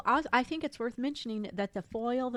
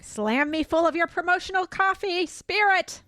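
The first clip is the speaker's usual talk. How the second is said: mock sultry; 6 semitones higher, 5 dB louder than usual. Mock steamy reading of book line.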